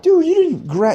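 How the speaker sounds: high, loud scolding outburst; a touch of a sergeant chewing out; mock scolding. Sergeant scolds him for running off, loud. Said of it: "he was just like".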